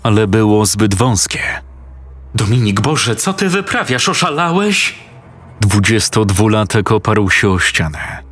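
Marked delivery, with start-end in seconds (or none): 2.3-4.9 much higher, shocked questions; alarmed. A narrator's reading. Girlfriend sees him squeezing through the window, alarmed. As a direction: she can't believe what he's doing.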